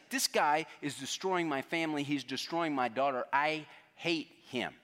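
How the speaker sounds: slowing on I hate him, half acted anger; mock angry outburst. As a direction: relive the father's resentment, a bit hammed. Father retells his hatred of Kim.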